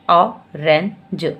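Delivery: "ऑरेंज" stretched very slowly, falling at the end; slow blended word. Shown as a demonstration. Teacher finishing the blended word, slow and falling. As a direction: close the word with a slow fall. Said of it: "फिर इकट्ठे बोलिए".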